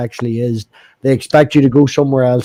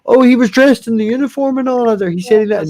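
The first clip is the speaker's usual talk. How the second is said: put-on higher, flustered old-lady excuse; imitating granny; 7 semitones higher than usual. Granny explains to her grandchild, high and flustered. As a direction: play the granny defending herself.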